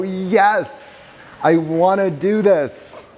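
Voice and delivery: high, drawn-out eager yes; inspired resolve. Acted. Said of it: "we also feel inspired".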